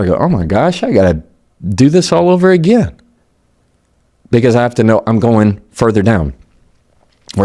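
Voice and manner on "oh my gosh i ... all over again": exasperated groan. Retold or imitated. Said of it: "I say this out loud".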